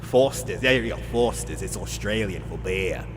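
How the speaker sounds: put-on Australian ad slogan voice; Australian accent. Streamer mimicking a Foster's slogan, put-on Australian accent. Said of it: "that's an Australian accent".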